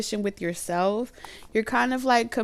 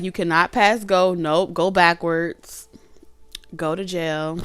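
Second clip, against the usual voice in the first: bossy scolding; 5 dB louder, slower than usual. Acted. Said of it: "you be like".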